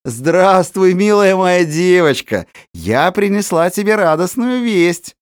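high, syrupy coaxing; cunning woman's honeyed welcome; falsely sweet. Acted. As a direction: pour on the sweetness to win the girl over. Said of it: "насколько можно ласковее лукавая женщина".

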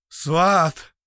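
loud muffled call; muffled cry. A narrator's reading. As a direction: call out, choked. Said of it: "глухо кричал Фитюлич".

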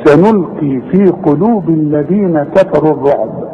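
measured Quran chant ending on a bounced ب in الرعب; qalqalah at the stop. Shown as a demonstration. Teacher pointing out the ba, echoing stop on الرعب. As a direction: pop the last b of الرعب open. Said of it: "قلقلت الإيه؟".

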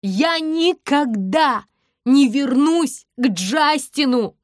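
shouting to the whole street; slow yell. A narrator's reading. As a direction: drag each word out, yelling. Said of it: "кричу я".

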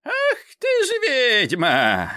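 put-on old Koschei spooked, drawn out slow; old Koschei muttering. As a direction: Koschei recognising the witch, slow and loud. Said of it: "забормотал".

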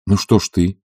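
plain reading voice

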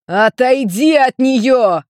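loud angry yell, drawn out; shout. A narrator's reading. Ian yelling at his brother to step away, furious shout. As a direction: yell at him to back off. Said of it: "её прервал крик Йена".

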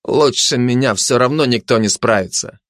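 mildly arrogant boast; understated disdain; haughty. Acted. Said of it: "высокомерно произнёс фашист".

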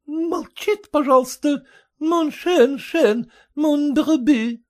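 put-on high, slow accented scolding; French accent. A narrator's reading.

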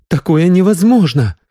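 high, loud cry of disbelief; shocked outcry. A narrator's reading. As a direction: refuse to believe it, loudly. (потрясённый громкий возглас)

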